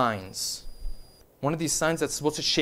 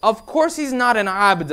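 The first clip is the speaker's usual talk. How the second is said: mildly indignant, slightly raised pitch; indignant maid; 3 semitones higher, 4 dB louder than usual. Retold or imitated. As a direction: act out a maid's quick protest. Maid's indignant reply, acted.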